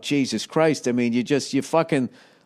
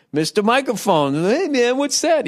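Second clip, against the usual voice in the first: commercial guy voice; 9 semitones higher than usual. Retold or imitated. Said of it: "So this guy goes".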